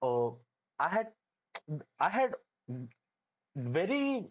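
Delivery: halting, repeated restarts; stammering. Real, not acted. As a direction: stumble over the words. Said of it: "sorry, I'm stammering here".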